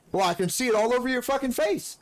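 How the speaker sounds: mock accusation. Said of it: "I was like".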